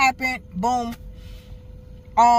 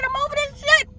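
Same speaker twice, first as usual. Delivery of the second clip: holding back tears. Real, not acted. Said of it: "I didn't wanna cry".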